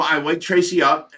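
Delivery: ordinary talk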